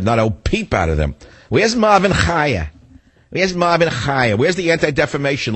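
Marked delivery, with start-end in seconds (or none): 1.5-5.6 indignant call-out. Real, not acted. Host calling out Jewish leaders, indignant. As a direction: demand to know where he is.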